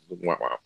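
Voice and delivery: short, low, soft mock trombone; imitated letdown noise; sad trombone wah-wah. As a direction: tag on a quiet, deflated wah-wah. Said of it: "that was the sound that the pay-per-view audience made".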